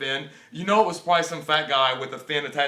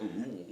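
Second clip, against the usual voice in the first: mock groan; 8 semitones lower, 12 dB quieter than usual. Imitating hero emerging from shark.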